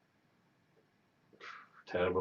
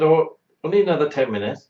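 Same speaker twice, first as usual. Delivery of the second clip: imitating the nurse; 4 semitones higher, 7 dB louder than usual. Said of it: "She said".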